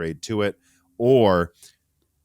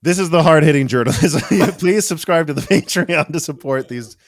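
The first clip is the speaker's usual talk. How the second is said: mock serious; 9 semitones higher, 10 dB louder than usual. Joking self-mocking plug.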